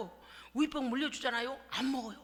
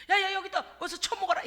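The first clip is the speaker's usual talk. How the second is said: rough parent; 5 semitones higher, 4 dB louder than usual. Retold or imitated. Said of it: "이런 게 아니고".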